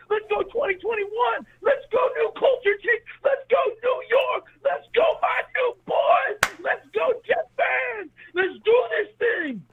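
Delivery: high, rallying fan cheer; joyful screaming. Real, not acted. Caller rallying Jets fans over the new team, joyful screaming. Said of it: "It's a good time to scream".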